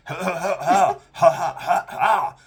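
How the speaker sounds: forced little cough-laugh; imitated mom laughing. Son mimics his mom at the funeral, mock laughing. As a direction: mimic the mother's nervous fake laugh. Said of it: "she's like".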